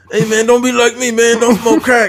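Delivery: very high, raspy, burned-out-sounding voice. Joking about what you can learn from a crackhead, in a raspy crackhead voice. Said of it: "always got a raspy voice".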